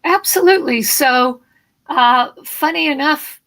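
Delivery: hoarse morning voice; a bit of a frog in the throat. Real, not acted. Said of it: "I'm having a little frog".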